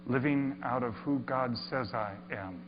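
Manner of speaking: hushed first reading of the sign; reverent read. Shown as a demonstration. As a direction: read it quietly, taking it in. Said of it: "Whatever. There's some words".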